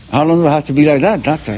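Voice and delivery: talking through a jaw that won't open; acted patient with immobile mouth; mouth wired shut. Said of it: "His mouth was like this".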